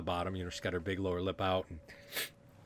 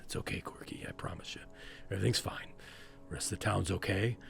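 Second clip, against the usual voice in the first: hushed, near-whispered comfort. Acted. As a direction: soothe a frightened friend under your breath. Reassures the frightened Corky.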